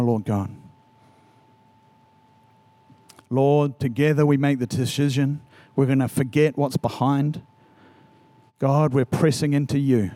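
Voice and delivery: low, unhurried prayer with long pauses; reverent, measured praying. Real, not acted. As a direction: lead the room gently in prayer, leaving space between phrases. Leads congregation in prayer.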